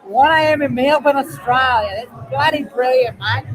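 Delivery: playful put-on Australian accent. Showing friends an accent for Melbourne, Australian accent. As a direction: show off your mock Aussie accent. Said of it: "That's my Australian accent on there".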